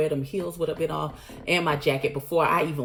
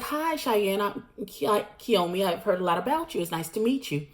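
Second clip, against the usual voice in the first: fake-polite intro; 4 semitones higher than usual. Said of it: "And she's like".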